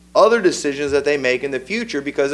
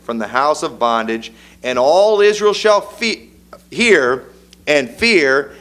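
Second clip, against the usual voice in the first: scripture reading. Acted. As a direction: proclaim the law like a preacher. Reads scripture aloud with force.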